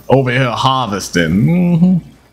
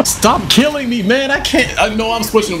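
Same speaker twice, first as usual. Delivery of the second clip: laughing high; 10 semitones higher than usual. Real, not acted. Laughing while being killed.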